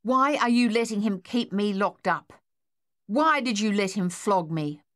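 put-on hurt boy demanding answers; angry protest. Boy confronts mother over punishment.

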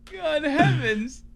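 high, slow, posh-mocking British voice; hammed-up British gent; mock British accent. Mocking the British while reading texts, in a hammed-up British accent.

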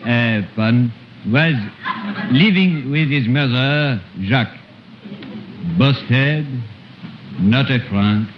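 put-on storyteller with a thick French accent throughout. Comic uncle retelling Jack and the Beanstalk in French accent. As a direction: tell the fairy tale in broken French-accented English.

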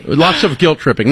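dry sarcastic joke; deadpan, tongue in cheek. Pretend. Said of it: "I'm being sarcastic".

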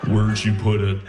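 low, flat sinister murmur; lightly voiced spooky sleep talker; creepy low voice. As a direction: drop into a creepy horror voice. Repeats girlfriend's creepy line.

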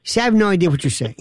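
fast, laughing through the words. Real, not acted. Amused by the caller's accent, laughing. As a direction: laugh while saying it.

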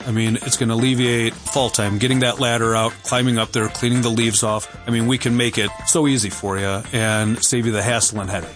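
usual speaking voice

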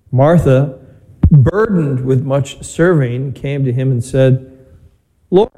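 measured, solemn proclamation of scripture; gospel reading. Real, not acted. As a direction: read it out slowly to the congregation.

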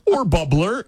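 slow, high, spelled-out choice; teacher clarifying for a new kid, slow and high. Retold or imitated. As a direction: lay out the options slowly like to a child. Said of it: "She's like".

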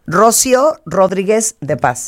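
slow "Rocío Rodríguez", accents dropped; name read without accents. Shown as a demonstration. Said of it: "No hay ningún acento".

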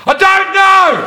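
very high-pitched, indignant comeback; exasperated retort. Acted. Passenger answering the TSA guy, exasperated retort.

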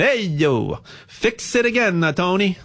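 playful Italian accent. Shown as a demonstration. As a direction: say it like an Italian guy from the neighborhood. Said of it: "I'll say it with an Italian accent".

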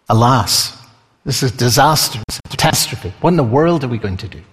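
hushed, then rattled off fast in alarm; a servant losing his nerve, words tumbling; mock panic. Preacher voices panicking servant.

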